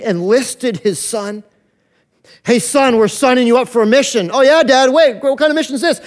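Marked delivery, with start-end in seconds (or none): 2.4-4.3 a hint of a cheerful father, a touch louder; Father to son. The Father signing his son up for a mission, lightly voiced. 4.3-6.0 lightly voiced son, louder and quickening; a keen son suddenly unsure; eager son. The son asking his dad about the mission, lightly voiced.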